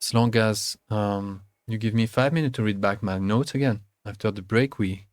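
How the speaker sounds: lightly voiced, solemn bison elder; a hint of a grave old spirit; big bison. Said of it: "says the big bison".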